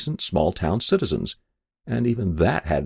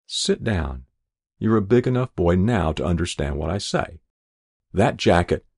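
gentle mother. Acted. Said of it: "she said in a different voice".

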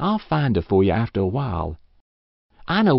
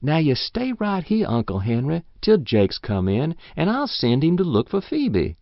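put-on coaxing old woman; 5 semitones higher than usual. She coaxes him to stay.

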